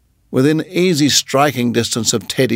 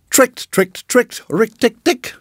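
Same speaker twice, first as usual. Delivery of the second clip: chuckling; 11 semitones higher than usual. Acted. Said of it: "chuckled Rikki Tikki".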